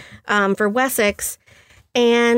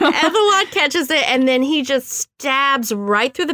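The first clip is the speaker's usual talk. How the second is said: laughing; 5 semitones higher than usual. Real, not acted. Laughing while retelling the kill.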